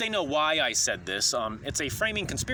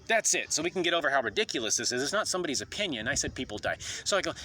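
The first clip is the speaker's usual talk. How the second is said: ordinary talk, nothing marked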